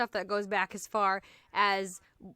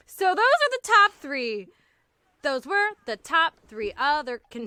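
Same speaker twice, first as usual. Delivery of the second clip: emphatic, measured beat on TOP THREE; deliberate verse-like stresses, breaking off; attempted iambic pentameter; 4 semitones higher, 6 dB louder than usual. Shown as a demonstration. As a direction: start loud and high on "those are the top three", as verse. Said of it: "I'm gonna stop trying to do".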